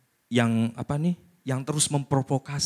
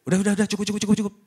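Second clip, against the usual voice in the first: fed up; 7 semitones higher, much faster than usual. Retold or imitated. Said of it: "Kalau hatinya sebel tuh maunya".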